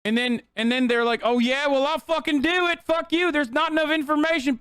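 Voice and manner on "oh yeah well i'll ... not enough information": high-pitched mock defiance; hammed-up childish backtalk; bratty bad kid. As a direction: imitate a stubborn kid talking back. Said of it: "conservatives act like fucking kids".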